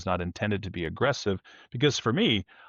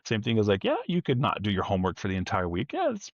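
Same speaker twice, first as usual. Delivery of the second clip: joking warning. Retold or imitated. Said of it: "I'm kind of joking with the person".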